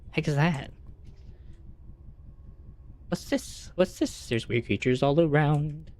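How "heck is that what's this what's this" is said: surprised. Real, not acted. Startled by game creatures.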